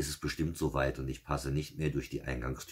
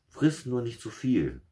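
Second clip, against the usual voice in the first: sly fox; 10 semitones higher, 7 dB louder, slower than usual. Acted. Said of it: "antwortete der Listige".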